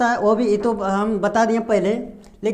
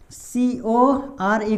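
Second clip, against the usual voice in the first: slow letter spelling; 3 dB quieter, much slower than usual. Shown as a demonstration. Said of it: "अब देखिए यहाँ पे".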